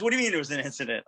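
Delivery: rapid-fire imitated query; quick questioning. Bill on the phone questions the news, quick and questioning. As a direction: fire the question straight back, fast. Boss reacts to bad news.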